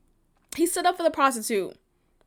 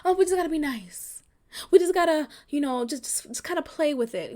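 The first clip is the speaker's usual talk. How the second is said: mock sing-song of the nice crowd; imitating a preachy believer; 2 semitones higher, faster than usual. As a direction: sneer at the advice, lightly. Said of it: "let's stop trying to play nice".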